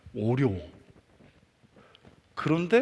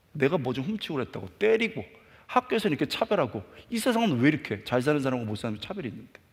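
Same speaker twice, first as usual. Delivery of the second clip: retold defiant outburst. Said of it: "너무 반감이 확 올라오는 거예요".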